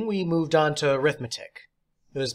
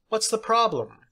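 theatrical teacher; 9 semitones higher than usual. Acted. Substitute teacher praising John, high and theatrical. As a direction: play the odd substitute, grand and pleased.

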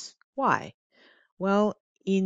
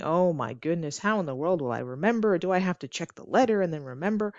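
worried student; 2 semitones higher, faster than usual. Pretend. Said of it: "you might be thinking".

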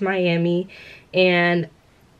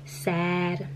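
quietly sad; 6 dB quieter, much slower than usual. Real, not acted. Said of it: "I've been sad".

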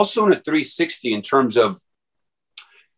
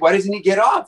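much higher, baffled follow-up; puzzled question; 9 semitones higher than usual. Retold or imitated. Visitor keeps asking his friend about the dog, high and baffled. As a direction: press the question, disbelieving. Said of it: "He's like".

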